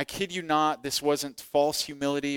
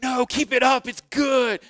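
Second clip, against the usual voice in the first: much higher, louder, eager boss voice; eager encouragement; 10 semitones higher, 6 dB louder than usual. Retold or imitated. Pastor insists the embarrassing act is working, high loud urging. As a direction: cheer him on with high, loud enthusiasm. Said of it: "And he's like".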